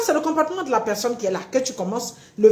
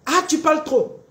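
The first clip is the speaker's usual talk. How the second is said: mock reproach; 5 semitones higher, 3 dB louder than usual. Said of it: "on t'a dit que tu parles trop".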